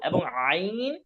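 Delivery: আইন squeezed out from the throat with pressure; pressed from the throat. Shown as a demonstration. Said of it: "চাপ দিয়ে উচ্চারণ করতে হবে গলা থেকে". (গলা থেকে চাপ দিয়ে আইন)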